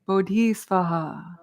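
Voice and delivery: slow closing phrase for repeating; call-and-response model. Shown as a demonstration. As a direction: model it slowly for the group. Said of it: "repeat after me".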